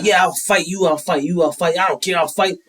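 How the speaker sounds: imitated challenge. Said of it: "he starts inviting people to fight".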